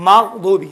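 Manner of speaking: مغضوب with a smooth, unbounced غ and a falling end; teacher's model word; no qalqala. Shown as a demonstration. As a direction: say مغضوب cleanly, no echo on the غ. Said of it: "مغ میں قلقلہ نہیں ہے".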